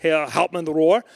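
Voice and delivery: slow, drawn-out Herr Rohr; slow careful address. Retold or imitated. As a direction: ease into the question carefully. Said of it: "I was like".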